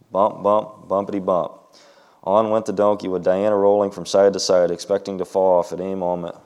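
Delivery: lively read-aloud storytelling voice; story narration. A narrator's reading. Reading a donkey story to the children, lively narration. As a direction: read it like a picture book to kids.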